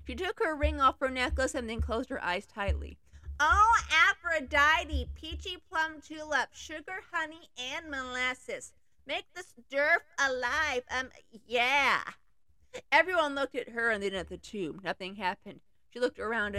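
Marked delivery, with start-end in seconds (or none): 3.4-12.0 high, slow, hammed-up spell chant; mock incantation. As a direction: cast a silly spell like a ditzy girl. Girl casts silly spell.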